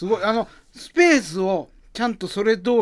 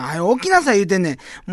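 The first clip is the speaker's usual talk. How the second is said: loud nosy osaka auntie; 3 semitones higher, 3 dB louder than usual. Acted. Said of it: "始まりの街というネタ".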